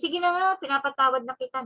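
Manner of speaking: quick, offhand mock pardon; insincere forgiveness. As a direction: toss off a token forgiveness, rushed. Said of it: "It should be sincere".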